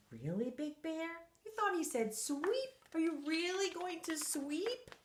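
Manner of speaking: high, doubtful question; disbelieving. Acted. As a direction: sound amazed and doubtful. Narrator questions bear, disbelieving.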